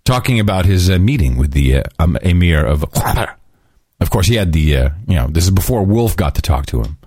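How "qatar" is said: "Qatar" hammed up from the back of the throat; mock native pronunciation of "Qatar", guttural and slurred. Shown as a demonstration. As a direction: exaggerate a throaty first sound in "Qatar". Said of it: "kind of a guttural way".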